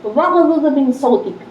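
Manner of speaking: वग़ज़ुज़ मिन सौतिक recited slowly in Arabic; Quranic recitation. Shown as a demonstration. Quoting the Quran to the women, slow recitation. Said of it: "क्या बोले?".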